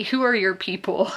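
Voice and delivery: lightly imitated Charleston accent. Imitating Southern small talk, light Charleston accent. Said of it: "Charleston accents".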